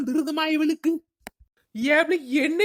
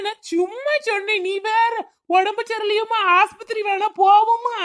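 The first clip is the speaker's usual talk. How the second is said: higher-pitched worried coaxing; anxious backtracking; 4 semitones higher, 4 dB louder than usual. Acted. Husband offers hospital to offended wife, anxiously coaxing. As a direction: rush to make amends with concern.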